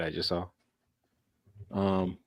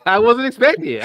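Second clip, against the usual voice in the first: emphatic protest; 13 semitones higher, 9 dB louder than usual. Real, not acted. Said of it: "I'm like".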